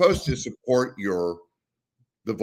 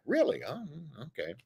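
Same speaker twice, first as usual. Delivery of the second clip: mock surprise; 5 semitones higher, 10 dB quieter than usual. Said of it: "And it's like".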